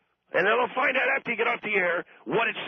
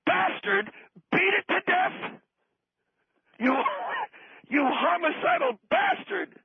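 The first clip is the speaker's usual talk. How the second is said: high, slow, drawn-out mock insult; mock outrage; 9 semitones higher, slower than usual. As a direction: savour the insult like a mock scolding. Host berates guest for killing puppet.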